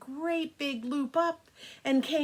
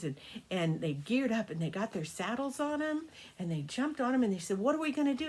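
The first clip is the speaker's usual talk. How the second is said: put-on storytelling to children. A narrator's reading. Grandma telling the grandkids a birthday story, gentle storytelling. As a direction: spin a bedtime tale for the grandkids.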